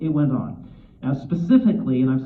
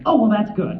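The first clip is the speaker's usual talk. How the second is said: pleased; 7 semitones higher, 5 dB louder than usual. Retold or imitated. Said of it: "he got this big smile".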